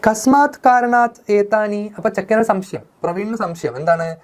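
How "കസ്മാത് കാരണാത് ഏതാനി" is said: higher, slow Sanskrit question; nephew's question. Acted. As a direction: ask puzzled, drawing it out. Nephew asks reason. (ഉയർന്ന സ്വരത്തിൽ പതുക്കെ ചോദ്യം)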